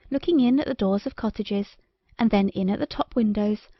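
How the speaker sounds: ordinary delivery, nothing marked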